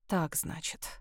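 low, hollow and quiet; muffled. A narrator's reading. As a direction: say it dully, under the breath. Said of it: "глухо сказал он".

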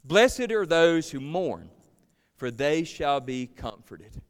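slow, measured recitation for others to follow; leading group recitation. Real, not acted. Preacher has the congregation say the verse with him, slow group recitation. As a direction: lead them through the verse slowly, evenly paced. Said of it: "Say that with me".

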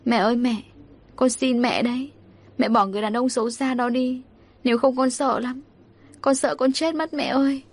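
mildly tearful, frightened pleading; tearful begging. Acted. Daughter begging mother to leave her stepfather, tearful pleading. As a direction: plead with a touch of tears. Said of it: "khóc lóc xin mẹ".

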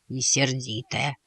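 put-on young mouse adding a private thought about the girl; to himself. A narrator's reading. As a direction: mutter it under the breath as an afterthought. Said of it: "добавил он про себя".

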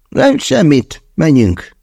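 high, stubborn refusal. A narrator's reading. Andrei stubbornly refuses to explain, high-pitched. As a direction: shut the question down obstinately. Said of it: "válaszolta konokul".

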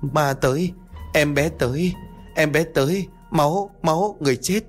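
high, broken frightened chanting; delirious terror. Acted. Ngọc clutching her head, delirious terror. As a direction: chant the horrors in short gasps. Đôi mắt long lên.

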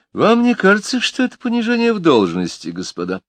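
a hint of a mocking chief; ironic boss. A narrator's reading. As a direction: needle them with mock dignity. Juffin's ironic question.

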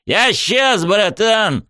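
high, excited buddy voice; a friend calling back from far away; distant call. A narrator's reading. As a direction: yell back from across the hall. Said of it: "донеслось оттуда".

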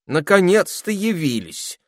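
high, loud scolding spider voice; grumpy spider. A narrator's reading. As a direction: greet them with fussy reproach. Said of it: "встретила их Дульчебелла".

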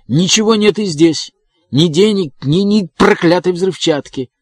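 high-pitched outburst of despair; breaking-voiced shout. A narrator's reading. Evans crying out that the explosives are missing, high and desperate. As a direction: rail at the empty box in a high voice. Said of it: "крикнул он срывающимся голосом".

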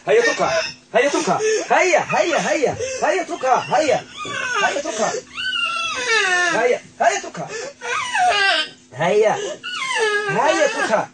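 high, loud repeated orders, straining and cracking; shouting commands. Real, not acted. Healer to the spirit in the man, shouting at it to leave. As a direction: drive it out with every shout.

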